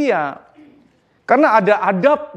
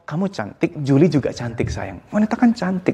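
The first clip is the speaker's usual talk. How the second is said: reassuring parent. Shown as a demonstration. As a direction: gently soothe a child, voice dropping. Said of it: "Nah, gitu ngomongnya".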